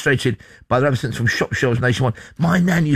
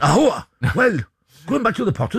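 Welsh mock impression; 5 semitones higher than usual. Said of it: "It was Tom Jones then".

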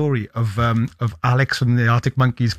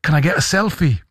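imitated Glaswegian, starting higher; Glaswegian accent; 3 semitones higher than usual. Manager asking for a selfie, imitated Glaswegian accent. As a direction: put on a Glaswegian accent for the request. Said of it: "in a very Glaswegian accent".

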